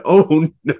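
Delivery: high, laughing mock horror; mock dismay. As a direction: act out dismay through laughter. Retold horrified reaction, laughing.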